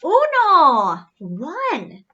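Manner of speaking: high, loud counting call; excited high call; excited answer. Acted. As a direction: shout the answer gleefully.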